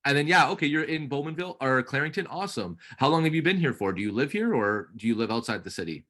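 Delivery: bright, friendly sales chat; upbeat realtor on call. Acted. Coach playing realtor to trainee's lead, upbeat. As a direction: keep the lead talking warmly.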